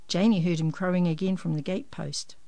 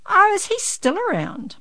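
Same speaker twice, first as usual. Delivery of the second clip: surprised; 13 semitones higher, 7 dB louder than usual. A narrator's reading. Mum surprised.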